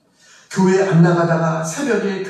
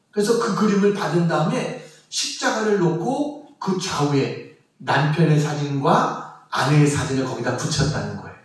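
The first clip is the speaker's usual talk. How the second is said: ordinary talk, nothing marked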